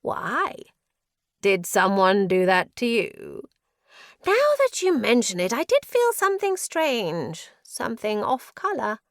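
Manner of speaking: high, loud, swooping madman; mad prisoner, excited. A narrator's reading. Prisoner pries into the curse, madly excited. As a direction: swoop up with manic curiosity.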